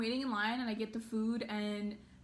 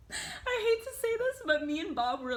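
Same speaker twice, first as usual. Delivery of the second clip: laughing; 10 semitones higher than usual. Real, not acted. Laughs while confessing not listening.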